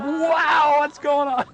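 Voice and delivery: high, laughing mock amazement through real laughter; laughing surprise. Real, not acted. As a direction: laugh out the quote, eyes wide. Retelling the prophet's wide-eyed surprise.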